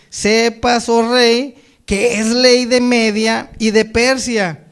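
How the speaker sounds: projected, measured Bible reading; scripture reading. Acted. Preacher reads Daniel to the congregation, solemn scripture reading. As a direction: declaim the verses phrase by phrase.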